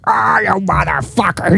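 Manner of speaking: retelling the friend's reply, a touch of grudging groan; imitating friend's groan. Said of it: "You did that voice".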